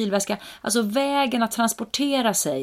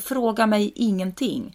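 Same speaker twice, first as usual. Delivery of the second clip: wish to scream; 3 semitones higher, slower than usual. Retold or imitated. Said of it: "man vill skrika rakt ut".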